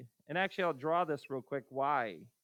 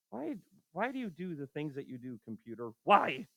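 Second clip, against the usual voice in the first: exasperated mock yelling. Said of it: "Yelling at the computer".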